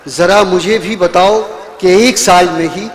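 sung-out verse with rising line ends; poetry recitation. Acted. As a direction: recite each couplet to the crowd. Poet recites verse again.

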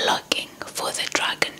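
plain reading voice

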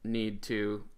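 robot voice. Acted. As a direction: talk like a halting robot. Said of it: "he sounds like a robot".

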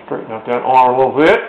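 talking around a pencil; mouth full. Real, not acted. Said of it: "Sorry, I got a pencil in my mouth".

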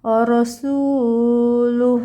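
রাসূলুহ ended clipped, no stretch; stop short. Shown as a demonstration. Teacher showing the pause at the end, careful recitation. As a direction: stop dead on the last হ of রাসূলুহ. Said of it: "এখানে থেমে যেতে হবে".

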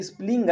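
"स्पेलिंग" misread as "is-pling"; misread spelling. Shown as a demonstration. Teacher showing students a wrong reading, "स्पेलिंग" said "is-pling". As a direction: put an i before स्पेलिंग and squash it to "is-pling". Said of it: "आप गलत पढ़ रहे हैं".

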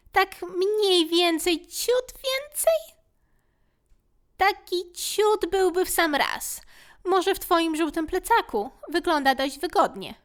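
high, slow complaining creature; tiny fussy creature voice; whiny little fear. Acted. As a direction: grumble about the cramped pocket.

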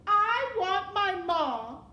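drawn-out high, loud wail; crying out. A narrator's reading. Mig crying again for her mother, loud wail. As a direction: let the wail ring out slowly. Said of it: "cried Mig in the silent".

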